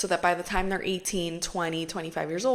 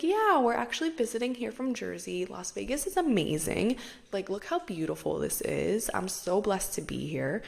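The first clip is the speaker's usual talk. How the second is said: charming friend. Retold or imitated. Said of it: "try my best to reenact the way".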